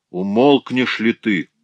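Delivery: loud, slow scolding shout; sharp rebuke. Acted. Вдова раздражённо прикрикивает на дочь, резко. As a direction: snap at the daughter. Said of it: "прикрикнула вдова".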